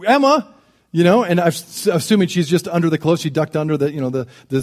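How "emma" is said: light, higher-pitched call. Retold or imitated. Dad calls his hiding daughter in a store, lightly calling out. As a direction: call her name, not yet worried.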